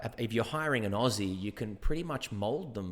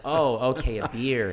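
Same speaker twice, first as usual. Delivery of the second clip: loud American 'beer' of sudden understanding; American server; 3 semitones higher, 8 dB louder, slower than usual. Retold or imitated. American server finally understanding order, exaggerated American accent. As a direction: mimic an American finally catching on. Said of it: "And it's just like".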